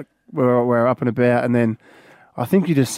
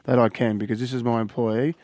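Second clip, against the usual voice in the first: slurring; 2 semitones lower, 3 dB quieter than usual. Pretend. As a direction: fake sick slurring, fading softer. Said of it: "He started to sound like he's slurring his words".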